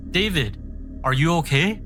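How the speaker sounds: high, alarmed shout. Acted. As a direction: call out high in sudden alarm. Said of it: "I shouted".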